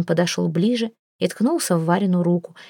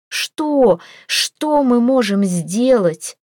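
higher, louder, slow desperate plea; desperate exclamation; 5 semitones higher, 3 dB louder, much slower than usual. A narrator's reading. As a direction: cry out helplessly. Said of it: "воскликнула Варя". (отчаянное восклицание)

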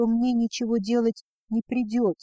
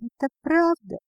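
бормоча сквозь всхлип; 7 semitones higher than usual. Acted. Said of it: "пробормотала она, всхлипнула".

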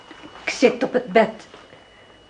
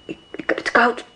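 shivering whisper; 2 semitones higher than usual. Acted. Waiting in the cold night.

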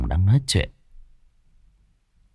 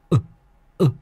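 high panicked scream for help; terrified cry; 5 dB louder than usual. A narrator's reading. Long screams to Nam for help, terrified high shout. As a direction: shriek it out in sheer terror.

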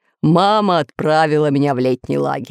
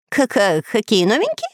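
stammering; 3 semitones higher than usual. Acted. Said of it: "заикаясь".

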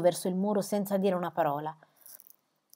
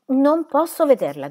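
higher, louder panicked refusal; 8 semitones higher, 8 dB louder than usual. A narrator's reading. Cornered squire refusing to see her, loud panic. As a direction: cry it out, cornered.

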